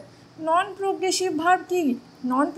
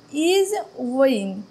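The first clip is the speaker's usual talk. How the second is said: slow reading; 2 semitones lower, much slower than usual. Shown as a demonstration. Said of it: "পুরো সেন্টেন্সটা পড়বো".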